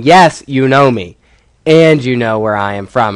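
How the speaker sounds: firm opening "Yes", then a weighted "and"; emphatic stress. Shown as a demonstration. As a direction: stress "Yes" and lean on "and" to join both claims. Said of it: "to show the emphasis".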